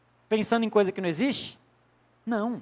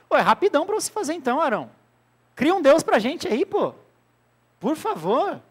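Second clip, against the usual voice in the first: higher, fast pushy pleading; pleading crowd; 5 semitones higher than usual. Retold or imitated. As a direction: nag him to hurry up. (povo insistente suplicando)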